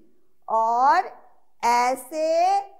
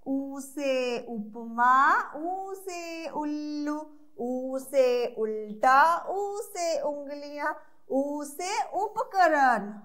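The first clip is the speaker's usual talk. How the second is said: slow teacher drill, each word spelled out; slow, clear drill for little learners; slow recitation drill; slower than usual. Shown as a demonstration. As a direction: recite slowly for kids to repeat. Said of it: "फिर से repeat करना है".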